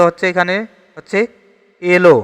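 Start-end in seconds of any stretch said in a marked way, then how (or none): 1.8-2.1 "এলো" as elo, with closed e; closed e pronunciation. Shown as a demonstration. Teacher shows the natural vowel, "এলো" as elo. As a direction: say "এলো" as elo, not ælo. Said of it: "এ উচ্চারিত হয়".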